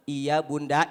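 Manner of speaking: low, meek yes; husband giving in to his scolding wife. Acted. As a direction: mumble obediently.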